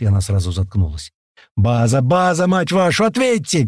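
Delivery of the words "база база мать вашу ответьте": builds from urgent calling to a high cursing yell; a soldier yelling over the radio at base. A narrator's reading. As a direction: shout into the radio, getting higher. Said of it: "кричит в рацию паштет".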